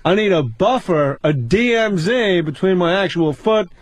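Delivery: Seinfeld-style bit. Pretend. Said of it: "do a little more".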